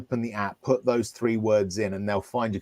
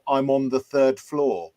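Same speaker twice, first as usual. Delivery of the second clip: slow spelled-out demo; slower than usual. Shown as a demonstration. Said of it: "then that person will say".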